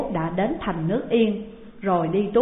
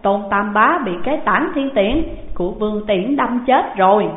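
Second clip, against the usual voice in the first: breathless report; 4 dB louder than usual. Acted. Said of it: "thở hào hển nói rằng".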